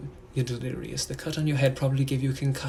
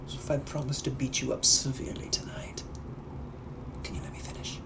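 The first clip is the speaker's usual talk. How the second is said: hushed whisper; 4 dB quieter than usual. Acted. Busy gentleman hushing his partner.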